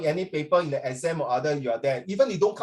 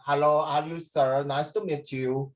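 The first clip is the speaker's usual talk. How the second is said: put-on Filipino accent; 3 semitones lower, slower than usual. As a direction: lower Filipino-accented greeting, slowing at the end. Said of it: "Filipino is the best".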